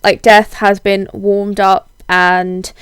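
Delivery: husky voice from a heavy cold; hoarse, under-the-weather husky voice. Real, not acted. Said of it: "my very husky man voice at the moment".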